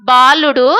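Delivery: put-on firm call-out for children to repeat; teacher's measured prompt; verse recitation. Shown as a demonstration. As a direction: lead a memory verse in short phrases.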